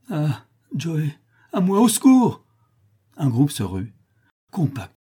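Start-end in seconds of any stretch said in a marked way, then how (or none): 0.1-2.5 high, frightened call for help; cry for help. A narrator's reading. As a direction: scream out to Joey in terror. A woman calls for help. (appel au secours terrifié)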